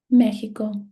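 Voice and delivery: "Mexico" with the stress on its first syllable, Me. Shown as a demonstration. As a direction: lean on ME in "Mexico". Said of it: "my stressed syllable is me".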